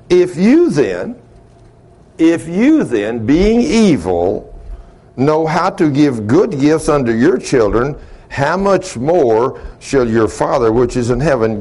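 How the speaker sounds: slow, emphatic Bible reading; scripture reading. Real, not acted. Preacher reading to congregation about asking God, slow emphatic scripture reading. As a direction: draw out each phrase of the verse.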